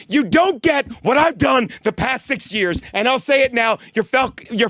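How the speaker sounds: defensive rant, shouting; angry shout. Real, not acted. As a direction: bellow it in frustration. Ranting at audience.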